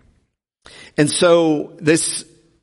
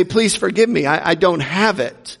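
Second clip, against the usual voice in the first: pleading; 4 semitones higher than usual. Acted. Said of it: "began to plead for mercy".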